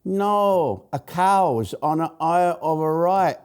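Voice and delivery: giggling through a Benny Hill Japanese bloke; mock Japanese accent, laughing. Retelling a Benny Hill sketch, mock Japanese accent laughing. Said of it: "playing a Japanese bloke".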